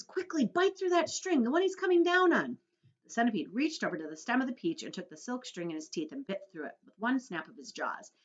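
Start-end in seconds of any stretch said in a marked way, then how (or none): 0.0-2.6 high, loud urgent order; urgent yell. A narrator's reading. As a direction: shout the order fast, no time to lose. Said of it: "yelled James".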